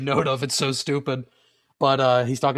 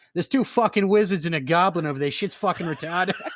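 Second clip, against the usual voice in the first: put-on Boston accent, casual everyday talk; 4 semitones higher than usual. Joking about fantasy shows, imagining the characters speaking in a Boston accent. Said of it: "you can't have people with Boston accents".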